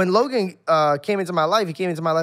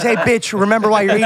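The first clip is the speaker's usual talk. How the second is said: higher, louder mock taunt from the boss; bossy mock master; 3 semitones higher, 6 dB louder than usual. Logan taunting his friend at mealtime, mock master voice. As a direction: bark it like a mock slave driver, high and loud. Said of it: "looks at us each time and goes".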